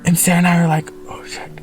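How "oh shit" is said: very soft, retold whispered curse; imitated hushed shock; stunned under-breath curse. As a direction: barely let it out, holding your breath. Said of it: "I don't know that we breathed".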